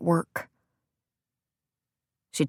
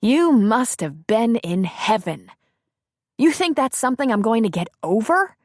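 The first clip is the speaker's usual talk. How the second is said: cynical mockery; 4 semitones higher than usual. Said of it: "a cynical and mean laugh".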